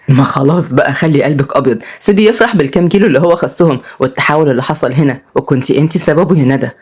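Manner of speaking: lightly voiced soothing male character; Odai, placating. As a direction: talk her down from her temper.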